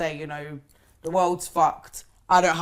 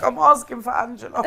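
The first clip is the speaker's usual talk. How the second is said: laughing; 4 semitones higher, 5 dB louder than usual. Retold or imitated. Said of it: "I'll be like".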